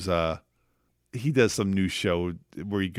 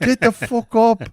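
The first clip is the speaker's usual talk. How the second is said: high, loud, drawn-out imitated yell; mock-furious chef berating someone; Gordon Ramsay; 13 semitones higher, 7 dB louder than usual. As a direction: yell it at a lazy worker. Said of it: "Gordon Ramsay just kept yelling at him".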